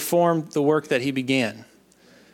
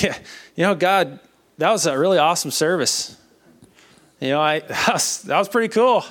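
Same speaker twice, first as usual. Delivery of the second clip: higher-pitched, chatty griping to God; half-joking disappointment, pitched up; wry mock complaint; 4 semitones higher than usual. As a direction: remind God of it with wry impatience. Acts out his doubting talk to God.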